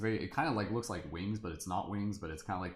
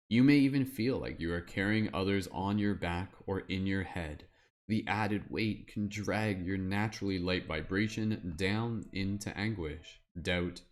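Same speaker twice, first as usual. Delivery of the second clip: wizard voice. Pretend. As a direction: read it out like a solemn wizard, drawing out phrase endings. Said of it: "my like wizard voice".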